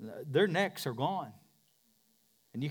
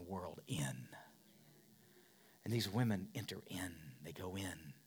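whisper; 5 semitones lower, 8 dB quieter than usual. Acted. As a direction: drop to a hushed whisper. Preacher drops to whisper.

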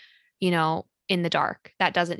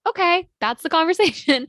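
mock dismissive; 10 semitones higher, 5 dB louder than usual. Mocking shallow podcast endings.

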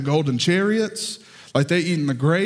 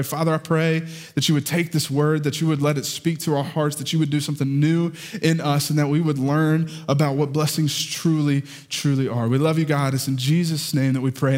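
prayer; 3 semitones lower than usual. Acted. Pastor praying over church, hushed and earnest. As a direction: pray over the congregation gently.

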